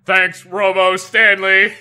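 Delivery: robot voice. Pretend. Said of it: "in our robot voices".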